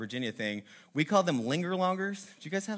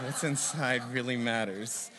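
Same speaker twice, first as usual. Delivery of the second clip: mock segue; 4 semitones lower, 4 dB quieter than usual. Shown as a demonstration. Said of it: "That's my transition there".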